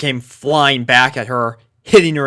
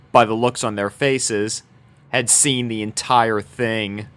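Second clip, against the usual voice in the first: usual speaking voice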